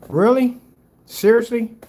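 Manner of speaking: high, loud incredulous yelp; hammed-up shock; mock disbelief. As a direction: act stunned by it. Mock disbelief at paint comparison.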